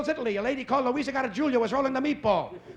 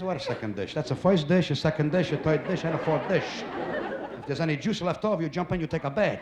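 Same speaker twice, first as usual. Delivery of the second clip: lower, scoffing Italian mother; 6 semitones lower than usual. Retold or imitated. Mother scoffing at her son's question, lower and dismissive. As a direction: scoff at the kid's question like mama. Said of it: "She goes".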